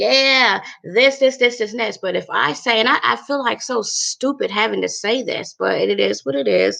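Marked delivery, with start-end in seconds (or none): 0.0-2.0 high-pitched, chatty, upbeat voice. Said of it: "if I'm okay, I'm gonna be like".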